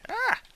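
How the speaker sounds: short, high, loud "ah!"; sudden yelp. Real, not acted. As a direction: let out a sharp, high yelp. Startled cry while playing.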